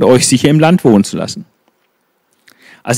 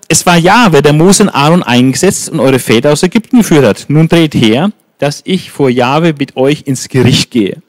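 stern preaching. Acted. Prophet summoning Israel to judgment, stern preaching. Samuel rebukes the people.

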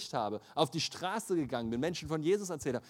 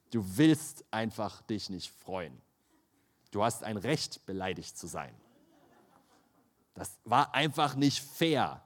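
low, slow, self-pitying whine; whiny sulking; 6 semitones lower than usual. Retold or imitated. Preacher mimics his own sulk when offended, low whining. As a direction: mope like a hurt child. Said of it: "Bist einfach am Rumheulen".

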